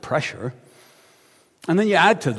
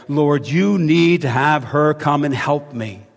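slow firm demand; slower than usual. Retold or imitated. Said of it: "comes over and says to him".

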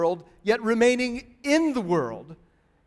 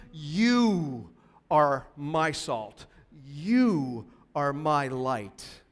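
tender assurance; 4 semitones lower, much slower than usual. Acted. Jesus voiced, after loud list.

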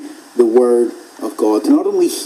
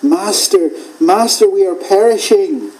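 mild frightened plea; 6 semitones higher than usual. Retold or imitated.

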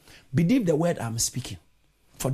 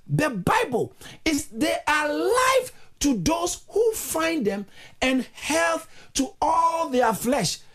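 raised pitch, stretched key words; emphatic preaching; 12 semitones higher, 3 dB louder, slower than usual. Acted. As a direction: preach it slowly, drawing out the big words. Preaches with force to congregation.

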